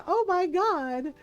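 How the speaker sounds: high, loud gushing delight; mock glee. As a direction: squeal it as the overjoyed vampire. Voices clapping vampire's glee.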